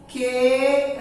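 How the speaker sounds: "Queridos" split: que, ri, dos; syllable by syllable. Shown as a demonstration. Teacher dictating to children as they copy, syllable by syllable.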